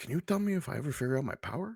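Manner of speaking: slight, soft, leaning-in half-whisper. Leaning in to ask another character about your power: half-whispering a little. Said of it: "I kinda lean in and whisper a little bit".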